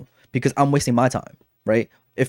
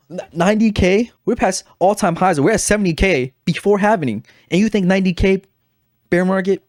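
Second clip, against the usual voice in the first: pitched up high and pushed, in utter disbelief; incredulous; 7 semitones higher, 3 dB louder than usual. Retold or imitated. Retelling his reply to a friend's ninety K call, incredulous and raised high. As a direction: scoff at the number like it's absurd.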